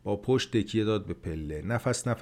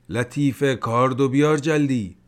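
داد زدن؛ داد بلندتر؛ از دور صدا بزن؛ صدا زدن لطیفه برای کارد; 4 semitones higher, 7 dB louder than usual. A narrator's reading. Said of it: "داد زد".

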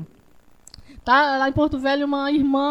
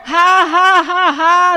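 mock laugh; 4 semitones higher, 7 dB louder than usual. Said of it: "Dá um sorriso na cara do maligno".

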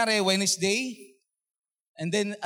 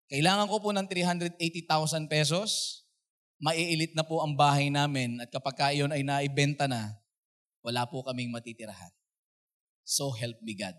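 pleading testimony; 4 semitones lower, 3 dB quieter than usual. Retold or imitated. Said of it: "Parang ganun yung sinabi ko".

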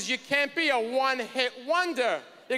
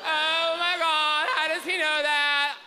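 mock amazement; 3 semitones higher than usual. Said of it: "She reacts".

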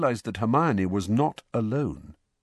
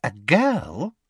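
higher, eager gossip voice; avid Rita; 5 semitones higher than usual. A narrator's reading. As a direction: pounce on the juicy news.

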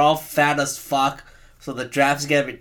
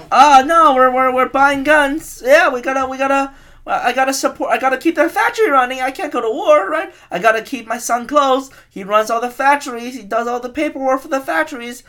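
much higher and louder, a hammed-up rich factory owner dodging the draft; mock rich industrialist; 10 semitones higher, 6 dB louder than usual. Factory owner explaining why he can't go to war, mock smug voice. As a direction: whine it like a smug tycoon excusing himself. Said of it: "It's just like".

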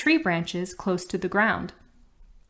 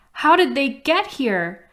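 stuttering; 6 semitones higher, 5 dB louder than usual. Acted. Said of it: "Cindy stuttered".

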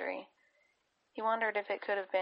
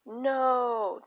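loud high roar; 6 semitones higher, 6 dB louder than usual. A narrator's reading. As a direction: roar it in desperation. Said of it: "Drea roared".

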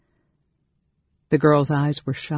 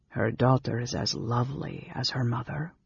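soft, slightly lowered; tender; 3 semitones lower, 6 dB quieter than usual. Acted. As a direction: murmur fondly over a baby. Companion speaks tenderly over orphaned baby.

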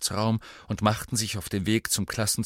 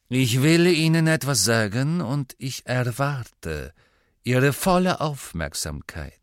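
raised, emphatic opening slowing to deliberate pauses; stern command; 5 semitones higher, 6 dB louder than usual. Acted. Snape addresses his silent class, sternly commanding. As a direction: demand attention, stretching the key words.

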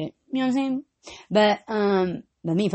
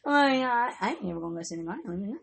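fast; 4 semitones lower, 10 dB quieter, much faster than usual. Retold or imitated. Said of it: "I was like".

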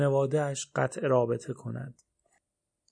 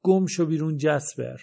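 somewhat louder, understated yell; father half-yelling at Jasper to leave; a mild shout; 4 dB louder than usual. Acted. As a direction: push him out with a moderate yell. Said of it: "پدرم دوباره داد زد".

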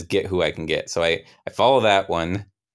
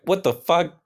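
shocked outburst; 11 semitones higher than usual. Retold or imitated. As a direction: blurt it out in disbelief. Ghost grabs his sandwich.

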